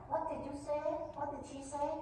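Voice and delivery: high-pitched imitation of a baffled father; puzzled questioning. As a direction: ask as if you can't believe your ears. Father's startled question, acted.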